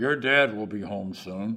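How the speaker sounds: teeth clenched, tense, tight-jawed. Narrator relays what a mother says to her child as a warning about his father's return. through clenched teeth. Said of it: "With soft assurance".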